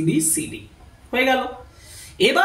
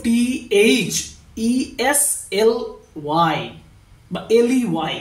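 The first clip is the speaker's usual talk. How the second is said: dictating each letter with a pause; spelling out letters. Shown as a demonstration. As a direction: spell the name out for the class. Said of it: "W H মানে হচ্ছে Henry রিডসলে".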